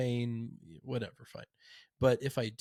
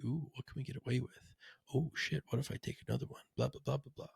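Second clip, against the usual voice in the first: addict voice; 2 semitones higher, 3 dB quieter, faster than usual. Retold or imitated. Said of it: "our addict voice".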